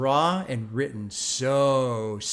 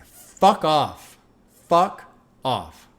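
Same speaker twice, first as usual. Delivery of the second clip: hyped shout; 3 semitones higher, 8 dB louder, much slower than usual. Real, not acted. Hyped reaction to lyric.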